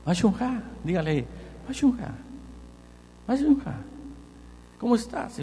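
"Mashunja" sung out high as a greeting; Hebrew greeting. Shown as a demonstration. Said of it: "dígale "¿Cómo estás?".

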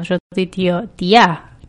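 mock Spanish accent from Spain; acento de España imitado. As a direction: put on a light Castilian Spanish accent. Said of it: "ya pienso en gallego". (imitando acento español de España)

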